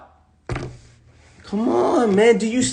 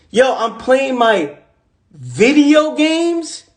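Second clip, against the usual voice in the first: higher, drawn-out lazy brag; mocking his old self; 4 semitones higher, much slower than usual. Mocking his younger self bragging about video games. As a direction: stretch out video games like a carefree slacker. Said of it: "that's what I was doing at the time".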